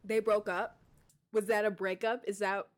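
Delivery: surprised. Real, not acted. Shocked at breakup scene.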